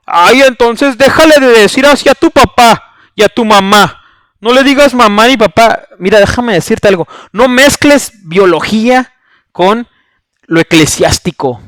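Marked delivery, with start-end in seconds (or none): 0.1-5.8 a light whiny imitation of the pastor; mocking whiny voice. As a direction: mimic his petty retort, a bit higher. (imitación burlona del pastor, quejumbrosa)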